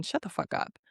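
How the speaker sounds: fed-up whisper under the breath; whispered retort. Real, not acted. Recapping a dating show, she whispers a fed-up retort. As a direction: hiss it to yourself, fed up.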